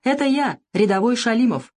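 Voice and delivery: put-on a cheerful young soldier calling; wounded soldier friend. A narrator's reading. Wounded friend calls from hospital.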